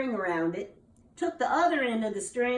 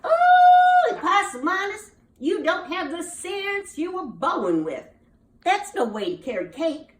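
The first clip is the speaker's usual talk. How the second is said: high, loud exasperated mother; a fed-up mama scolding her foolish son, loud and high; 5 semitones higher, 7 dB louder than usual. Acted. Mama scolding her son for carrying cake wrong, exasperated and high.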